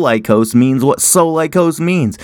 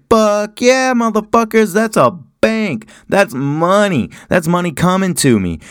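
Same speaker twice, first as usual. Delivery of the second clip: much higher, gleeful cheer that slows into savoring; mock gleeful local; 7 semitones higher than usual. Locals cheering tourist money, mock high glee. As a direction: play the thrilled local spotting rich tourists. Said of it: "you're like".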